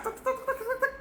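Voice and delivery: high, soft rapid-fire "tek-tek" noise; mouth-made rat-a-tat; imitated rattle. Shown as a demonstration. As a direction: rattle off quick high clicking syllables. Imitated rapid noise after loud intonation.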